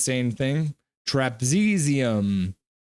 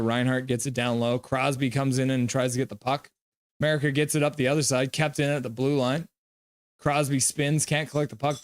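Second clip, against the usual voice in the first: play-by-play. Acted. Calls hockey game.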